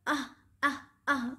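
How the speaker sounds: short pretend "ah" of hurt; mock cries of pain. Teacher showing what the hurt monkey says, mock pained cries. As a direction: play-act three small ouches. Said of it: "वो क्या बोलता है?".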